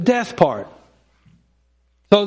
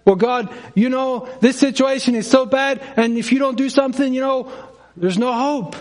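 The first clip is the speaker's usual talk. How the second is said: higher, pressing plea to God; mock panicked pleading; 5 semitones higher than usual. A believer frets to God about a bad situation, panicky. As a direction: beg God as if all hope is gone. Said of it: "Don't we also do that?".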